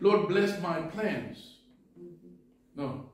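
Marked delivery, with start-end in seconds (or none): 0.0-1.6 mock prayer. Mock self-serving prayer.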